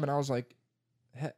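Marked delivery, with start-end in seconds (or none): 1.2-1.3 put-on whiny kid refusal.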